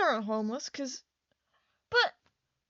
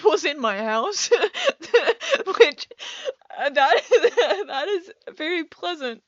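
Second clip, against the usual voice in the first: bursts of loud real laughter; laughing at her own fright; 3 semitones higher, 8 dB louder than usual. Real, not acted. Laughing to viewers about the intruder she imagined.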